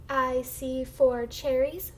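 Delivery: slow, stretched model sentence for beginners; slow model reading. Shown as a demonstration. Teacher models a sentence for the class to echo, slow model reading. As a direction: read slowly word by word, rising at the end. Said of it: "I'm gonna read the sentence first".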